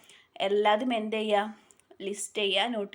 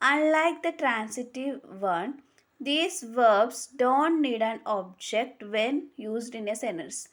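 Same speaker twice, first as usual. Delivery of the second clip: very slow, word by word, for note-taking; slow dictation; much slower than usual. Shown as a demonstration. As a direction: spell the rule out slowly so students can write it. Dictating the rule slowly.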